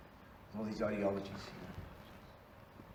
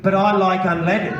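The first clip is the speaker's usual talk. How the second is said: whiny; 6 semitones higher, 7 dB louder, slower than usual. Retold or imitated. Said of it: "And you just went".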